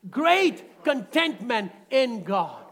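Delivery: slow, loud, punching GREAT; call it out loud. Shown as a demonstration. Preacher leading the congregation to shout it. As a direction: proclaim it to the room, slow and strong. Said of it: "Come on, somebody say that".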